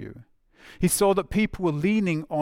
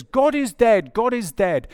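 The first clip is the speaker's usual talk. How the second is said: high, loud cry of a madman; shouting madman; 8 semitones higher, 6 dB louder, slower than usual. Acted. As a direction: cry it out like a raving madman in the square. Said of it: "this madman runs out".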